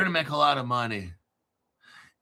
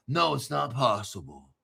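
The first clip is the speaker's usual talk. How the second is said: mock dismissive reply; 6 semitones lower, 4 dB quieter than usual. Answers own mock viewer question.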